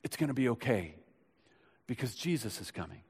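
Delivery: soft whisper. Retold or imitated. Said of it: "she's whispering".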